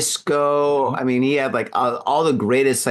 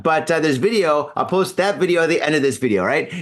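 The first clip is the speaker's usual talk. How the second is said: groggy, slurring a little; talking through a hangover; hungover. Real, not acted. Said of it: "I'm so hungover".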